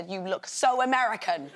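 amused "You look so American"; teasing her husband, laughing; laughing tease. Retold or imitated. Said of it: "He looks so American".

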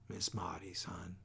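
soft, hushed and kind; a father hushing his daughter gently; gentle. Acted. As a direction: break bad news gently to a child. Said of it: "said Atticus gently".

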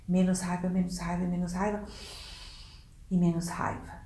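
low anger fading to quiet; raiva diminuindo. Shown as a demonstration. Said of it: "o máximo da raiva". (raiva cada vez menor, mais baixinho)

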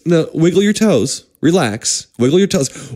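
even, unhurried doctor's coaching; steady the patient, matter-of-fact; calm instruction. Retold or imitated. Doctor to patient in pain, calm instruction.

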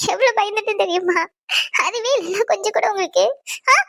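crying, upset questioning; tearful scolding. Acted. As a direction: scold him through tears after a scare. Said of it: "ஏன் அழுகுற நீ?". (அழுதுகொண்டே கோபமாக)

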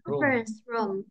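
Conference room, pitch dropping on room; teacher's model of Conference room with falling end. Shown as a demonstration. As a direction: let room fall after Conference. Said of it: "Room đi xuống nha".

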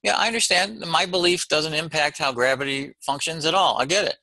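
a hint of an eager pupil; mock agreeable student. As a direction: imitate a student who nods along. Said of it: "They go".

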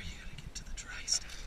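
whisper. Real, not acted. Digging in the ice shack.

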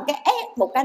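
mock squeal of a stuck pig; imitated pig squeal. Monk imitating children who shriek like slaughtered pigs, mock squeal. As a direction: imitate one sudden pig screech, lightly. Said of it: "cái đâm họng heo".

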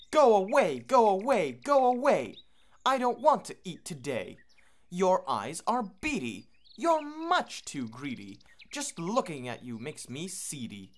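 high, loud, cross bird shouting them off; grumpy go-away bird. Acted. Go-away bird's refrain.

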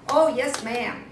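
mock polite hunter. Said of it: "he didn't talk quite that nicely".

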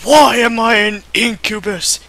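quivering frightened. Acted. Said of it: "his voice quivered and frightened".

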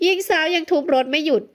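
plain reading voice

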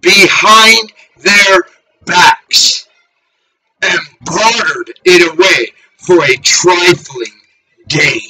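slow, halting solemn recitation; scripture reading. Real, not acted. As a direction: read holy text out phrase by phrase. Reads scripture aloud.

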